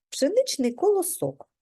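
ordinary delivery, nothing marked

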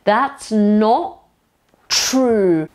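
"That's not true" with "not" ending on the vowel, then a pause; teacher's broken-up "That's not true", no t closing "not"; dropped t. Shown as a demonstration. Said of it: "Słyszycie?".

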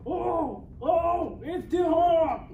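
high, loud cry of pain; pained shout. Acted. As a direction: yell out as if scalded. Pot screams as water heats.

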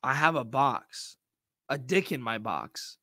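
a hint of a creepy storyteller; spooky mimicry. Mocking the guest's Pandora's box line with a lightly spooky echo.

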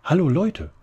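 high, loud call across a distance. A narrator's reading. Todd calls to friends across the cemetery, high and loud. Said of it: "rief eine hohe Stimme".

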